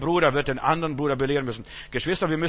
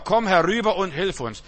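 a raised, higher cry of come over and help us; loud call for help; 6 semitones higher, 5 dB louder than usual. Acted. The man from Macedonia calling Paul over, a loud plea. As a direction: call it out loud like a man begging across the sea.

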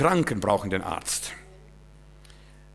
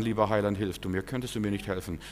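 softer, mousy little plea; mock a half-hearted polite prayer; timid, softer asking of the Saviour; meek timid prayer; 4 semitones lower, 5 dB quieter than usual. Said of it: "dann wirst du nicht sagen".

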